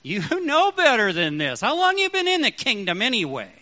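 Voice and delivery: disappointed father scolding; a touch of a stern God; mild stern rebuke. Retold or imitated. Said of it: "I don't want to hear him saying".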